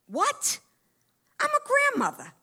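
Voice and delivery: very high squeal of disbelief; scandalised. Acted. Grandmother asked to do nudity at an audition, scandalised. Acted shock at nudity question.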